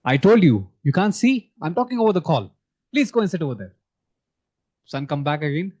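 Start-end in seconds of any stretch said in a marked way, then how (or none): 0.0-3.7 mock angry father, a burst on told; imitating a dad losing his temper on a call; father snapping at his son during a phone call; retold angry father. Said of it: "Father lost temper and he said".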